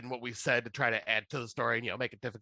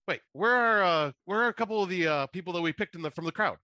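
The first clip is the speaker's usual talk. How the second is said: puzzled host; 5 semitones higher, 3 dB louder than usual. Retold or imitated. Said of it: "Brad Sherwood's looking around going".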